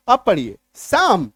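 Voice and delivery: साम said saam, with no p and no l; slow साम, both p and l dropped; silent p and l psalm. Shown as a demonstration. Teacher models the psalm word, slowly. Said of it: "पी एस ए एल एम".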